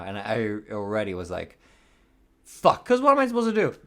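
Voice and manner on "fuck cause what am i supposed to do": a loud burst of a curse; retold loud curse. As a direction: spit the curse out hard as the dread hits. Caught out, swearing to himself.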